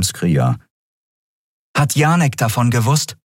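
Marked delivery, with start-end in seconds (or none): 1.7-3.2 eine Frau, höher gesprochen, fordernd; Andriel, bestimmt. A narrator's reading. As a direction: fordere die Antwort ein. Andriel fragt. (Andriel fordert Erklärungen, bestimmt und höher)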